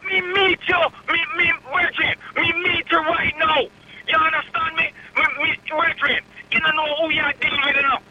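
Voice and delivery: heated Jamaican patois rant; furious Jamaican caller on the phone; angry Jamaican patois. Real, not acted. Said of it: "you went on a Jamaican run".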